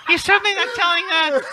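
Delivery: raspy voice with eagle shrieks; Kathy Griffin. Retold or imitated. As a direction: rasp it out with shrill shrieks. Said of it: "Kathy Griffin voice".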